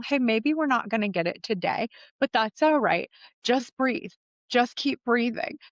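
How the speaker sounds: supportive inner coach. Retold or imitated. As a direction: cheer yourself on gently, like your own coach. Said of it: "My inner coach starts coaching me through it in this very supportive".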